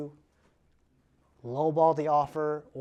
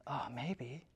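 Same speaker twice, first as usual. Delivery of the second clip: unsure seller; 3 semitones lower, 12 dB quieter than usual. Retold or imitated. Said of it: "If they go".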